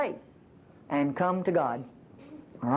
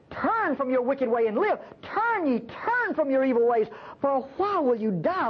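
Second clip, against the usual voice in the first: high, drawn-out urgent plea; imploring, in God's retold words; pleading; 7 semitones higher than usual. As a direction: plead with them to turn back, voice raised in pitch. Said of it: "God of the universe pleading with people".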